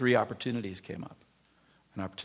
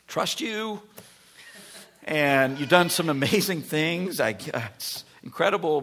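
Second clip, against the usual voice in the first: pleading Israelite; 2 semitones higher, 3 dB louder than usual. Acted. Israel arguing with God.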